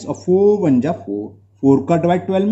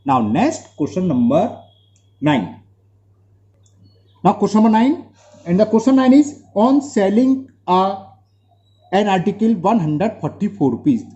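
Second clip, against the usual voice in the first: slow dictation; 4 semitones higher, much slower than usual. Real, not acted. Teacher reads next question slowly.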